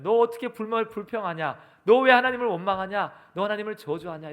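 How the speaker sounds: accusing questions in a preacher's acted voice; mock rebuke. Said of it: "이렇게 말씀하시지 않습니다".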